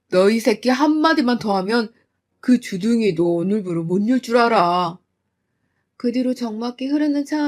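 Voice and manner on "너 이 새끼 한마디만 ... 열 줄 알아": father silencing son-in-law, menacing; threatening father. Acted. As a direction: growl a final warning.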